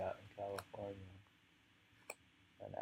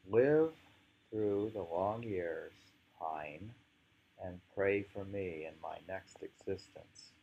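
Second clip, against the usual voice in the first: poem reading; slower than usual. Acted. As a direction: call out the first word, then ease into the verse.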